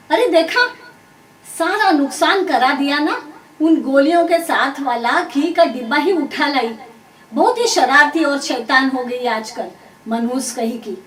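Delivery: loud, high tirade from a furious mother; shouted telling-off; angry scolding. A narrator's reading. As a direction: tear into the naughty child at full volume. Furious mother scolds over spilt ghee.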